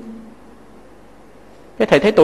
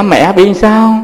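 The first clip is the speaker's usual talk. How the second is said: retold call; 5 dB louder, much slower than usual. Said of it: "Cái thầy la".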